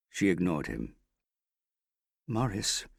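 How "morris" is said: frightened. A narrator's reading. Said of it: "she said in a frightened voice".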